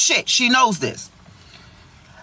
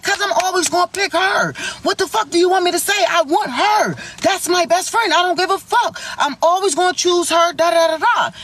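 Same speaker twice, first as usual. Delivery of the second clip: raised, fast, heated voicemail yelling; retold angry rant; 4 semitones higher than usual. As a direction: spit it out like he's cussing her out.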